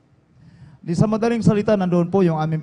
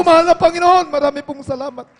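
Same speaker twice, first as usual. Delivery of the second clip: much higher, louder burst of thanks to God; joyful cry; 8 semitones higher, 4 dB louder than usual. Retold or imitated. Father thanking God the child revived, joyful high cry. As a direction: let the thanks leap out. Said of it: "Tumalon po ako na malakas".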